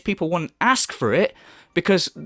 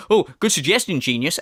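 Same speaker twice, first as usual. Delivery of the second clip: sarcastic; 3 semitones lower than usual. Retold or imitated. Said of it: "sarcastically going".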